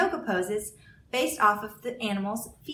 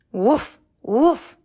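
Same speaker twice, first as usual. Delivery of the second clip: dog bark; 10 dB louder than usual. Acted. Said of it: "said Dog".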